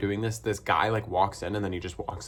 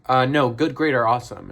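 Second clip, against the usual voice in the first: pushy owner; 3 semitones higher, 6 dB louder than usual. Retold or imitated. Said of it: "she was like".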